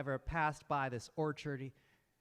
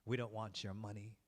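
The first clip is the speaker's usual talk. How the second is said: cold vengeful brothers; 4 semitones lower than usual. Acted. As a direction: calmly demand a life for a life. Brothers demand revenge.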